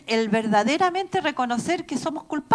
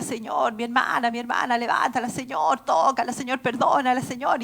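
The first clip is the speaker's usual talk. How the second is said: ordinary delivery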